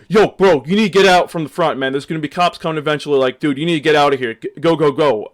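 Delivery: loud urgent warning from a frat bro; frat brother yelling. Retold or imitated. Frat brother shouting at the speaker to leave, loud and urgent. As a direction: push him to get out, loudly. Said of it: "this frat brother is like".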